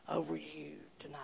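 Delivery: soft unvoiced whisper of a praying mother. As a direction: breathe it tenderly. Mother's tearful words to son.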